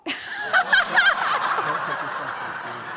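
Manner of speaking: loud, high burst of real laughter; embarrassed laugh at her own blank. Real, not acted. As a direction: crack up at forgetting the line. Forgets the punchline mid-story.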